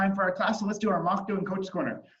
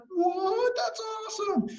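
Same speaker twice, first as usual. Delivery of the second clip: very high, squeaky astonishment; acted wide-eyed disbelief; amazed little girl; 13 semitones higher, slower than usual. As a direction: gasp it like a kid blown away. Girl amazed by seeds in story.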